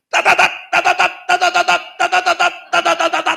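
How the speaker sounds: rattling burst of rapid tongues-style babble. Speaker retelling how a pastor's speaking in tongues burst out, imitating it. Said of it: "방언이 터졌는데 어떻게 터졌냐면".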